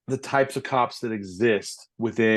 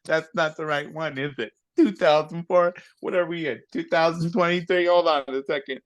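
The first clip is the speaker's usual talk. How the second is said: lightly voiced old lady, higher and unhurried; a flustered little old lady hunting papers; 4 semitones higher than usual. Old lady at a traffic stop fumbling registrations, lightly voiced. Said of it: "little old lady who's like".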